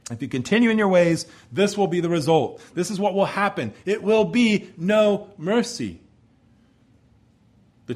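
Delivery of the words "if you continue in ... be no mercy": raised pitch, pressing warning; stern warning. Acted. Husband to his unfaithful wife about what will come, warning. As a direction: warn firmly, slowing on the final phrase. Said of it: "warning her of what will come".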